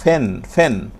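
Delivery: "ফেন" with a puffed first sound; aspirated P. Shown as a demonstration. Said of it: "so ফি হলে কি হবে?". (মহাপ্রাণ ফ দিয়ে "ফেন")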